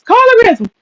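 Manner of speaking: high, whiny mock wail; mocking whine. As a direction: squeal the word like a parody victim. Mocking femcels' complaints.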